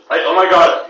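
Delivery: trying out a Valley voice. Shown as a demonstration. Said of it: "I need to get the voices".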